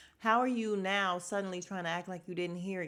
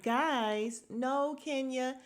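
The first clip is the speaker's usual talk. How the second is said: mock scolding; 5 semitones higher, 4 dB louder, slower than usual. Mock telling Kenya to shut up.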